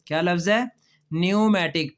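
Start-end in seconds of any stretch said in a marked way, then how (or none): 1.1-1.9 "न्यूमेटिक" said nyoo-matic, no p; silent p in pneumatic. Shown as a demonstration. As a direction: start "न्यूमेटिक" straight on the n. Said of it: "पी silent है". ("न्यूमेटिक" में पी खामोश रखें)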